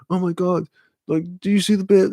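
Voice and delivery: high, fast, amazed French-free chatter to a friend; excited gasp. Retold or imitated. Watching Catfish together, friend squeals in high excitement. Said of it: "and it's like".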